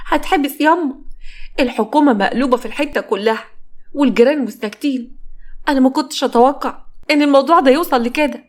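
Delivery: high, fast-rising panic; panicked. Acted. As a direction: plead in rising alarm. Panicked daughter to mother.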